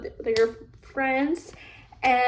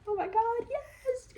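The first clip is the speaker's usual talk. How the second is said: excited yes; 11 semitones higher, 7 dB quieter than usual. Retold or imitated. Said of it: "He's like".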